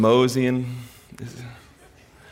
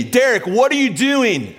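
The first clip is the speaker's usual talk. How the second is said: much higher, slow, calling voice of God; God calling him out by name; God speaking; 12 semitones higher, 3 dB louder, slower than usual. Retold or imitated. God confronting Derek in the aisle, high and searching. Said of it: "this moment hit me".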